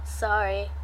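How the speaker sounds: low, soft mumbled apology. A narrator's reading. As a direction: drop the voice for a sheepish apology. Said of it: "he mumbles".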